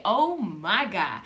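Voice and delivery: slow, settled "Oh my God" in praise; calm oh my God. Shown as a demonstration. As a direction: draw out "Oh my God" peacefully. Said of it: "or do I say".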